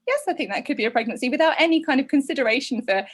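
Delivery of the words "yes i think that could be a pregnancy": quick, unconcerned clinical delivery; matter-of-fact. Retold or imitated. Clinician to frightened young patient, briskly matter-of-fact. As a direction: rattle it off without any concern. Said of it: "It was just this matter of fact".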